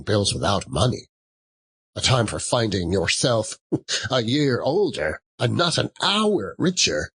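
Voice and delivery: a lightly voiced grumpy old miser ranting; miserly Scrooge. Scrooge rants at his nephew about Christmas, bitter and scornful. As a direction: sour old man spitting contempt at Christmas.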